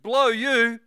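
loud, high defiant retort; defiant blind beggar. Acted. Bartimaeus defying the crowd, loud and high. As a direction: fling it back loud and defiant. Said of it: "He said".

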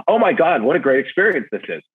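high-pitched mock gushing; mock delight. Imitating guests who are not saying this, mock delight. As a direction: gush it as a delighted guest would, put on. Quote of what diners aren't saying.

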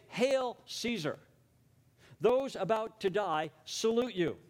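slow, lightly acted ceremonial hail; a hint of gladiators hailing Caesar; gladiators' salute. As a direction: draw out a salute to the emperor. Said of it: "And they say".

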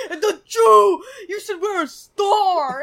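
high, loud taunting voice; mocking kids. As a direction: taunt like a schoolyard bully. Mocking classmates retold.

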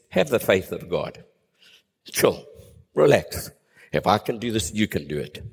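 nonchalant. Retold or imitated. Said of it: "Jesus is kind of nonchalant".

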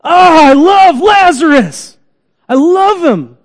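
high, loud, slow cry of grief; anguished cry. Acted. Jesus crying out over dead friend Lazarus, anguished. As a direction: cry out with a breaking heart. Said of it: "He cries out towards death".

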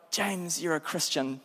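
soft, quiet self-rebuke; hushed voice of conscience; inner conscience. Retold or imitated. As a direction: say it under your breath as a warning to yourself.

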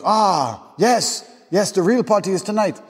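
high put-on old guy's voice; old party guest. Old guy questioning a guest's early exit, high put-on voice. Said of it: "some old guy comes up".

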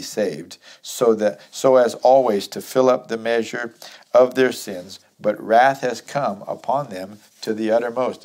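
firm, projected Bible reading; scripture reading. Acted. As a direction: read the verse out to the congregation. Reads scripture aloud to congregation.

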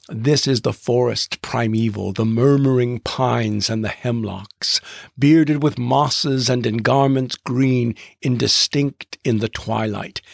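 measured dactylic verse reading, slowing on the third line; poem reading. Shown as a demonstration. Podcast host reciting Longfellow's Evangeline to listeners in rolling dactylic verse. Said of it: "a famous poem by Henry Wadsworth Longfellow".

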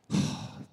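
weary, breath-only sigh; heavy sigh. Retold or imitated. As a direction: let out a long, saddened breath. Reaction to news of a death.

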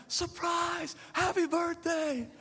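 wife springing the surprise, laughing; wife's cheerful surprise. Retold or imitated. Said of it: "she's like".

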